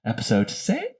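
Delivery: high far-off echo voice; like a distant recorded voice. Pretend. Jingle voice.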